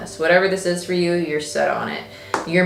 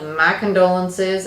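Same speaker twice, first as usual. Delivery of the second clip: slow, mock sympathy; sarcastic. Mimicking the card's message to someone in the way, sarcastic. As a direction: draw out the false condolences with sarcasm. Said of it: "I feel sarcasm with this".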